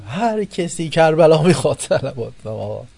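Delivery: loud, high calling out; mock shrine shout demanding blessings. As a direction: bellow the call to the pilgrims like a shrine crowd-rouser. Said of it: "یه دفعه گفت".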